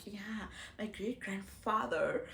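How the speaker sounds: deadpan claim, kept quiet and even; straight-faced joke. Retold or imitated. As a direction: say the tall tale with a straight face, no smile. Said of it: "I say it with a straight face".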